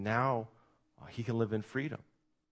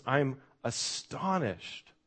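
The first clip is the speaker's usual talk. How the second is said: astonished; 2 semitones higher, much slower than usual. Retold or imitated. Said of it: "see if you can hear the tone here".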